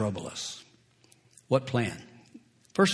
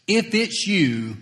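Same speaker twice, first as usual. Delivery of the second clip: voicing Peter; 5 semitones higher, slower than usual. Preacher voices Peter's request.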